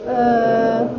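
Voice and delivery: UH held long, low and level; low hesitating tone. Shown as a demonstration. Teacher shows half third tone, low hesitating sound. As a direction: stretch UH like a hesitation, staying down. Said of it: "all the way down".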